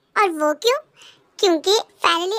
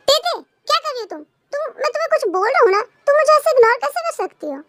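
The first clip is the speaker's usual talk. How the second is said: high, raised complaining call; 6 semitones higher than usual. Acted. Husband calling wife who ignores him while eating, raised whiny call. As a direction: demand her attention, whiny and raised.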